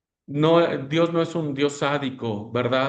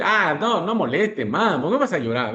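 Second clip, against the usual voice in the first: dismissive scolding; 2 semitones higher than usual. Retold or imitated. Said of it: "Pero no así decir".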